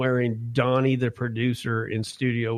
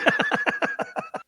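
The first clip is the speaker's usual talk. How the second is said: high-pitched burst of laughter; laughing. Real, not acted. Laughing after whiskey joke.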